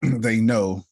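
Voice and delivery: a playful tease; teasing repeat. Real, not acted. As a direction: dangle the secret with a grin.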